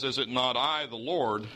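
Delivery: "I" lifted as the key word; stress on I. Shown as a demonstration. Preacher quotes God to show which I is in control, stress on "I". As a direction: lean on "I", then ease off "the Lord". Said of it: "is which I is in control".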